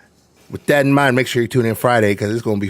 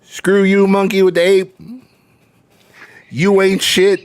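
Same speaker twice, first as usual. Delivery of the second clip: higher, heated wrestling-promo rant; mock trash talk; 5 semitones higher than usual. Guest calls out a troll in chat, heated promo rant. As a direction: call him out like a heel cutting a promo.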